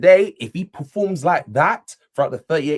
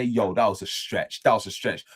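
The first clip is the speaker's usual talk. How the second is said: self-mocking admission; 5 semitones lower than usual. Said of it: "I can actually take back and say".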